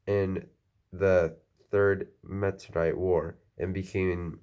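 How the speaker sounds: speech slurred by a retainer; talking around a dental retainer; wearing a retainer. Real, not acted. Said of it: "I have my retainer in".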